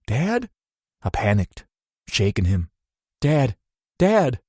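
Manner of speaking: high, rising panic calls; panicked calling. A narrator's reading. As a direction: call out to him in growing terror. Son panicking, shaking him.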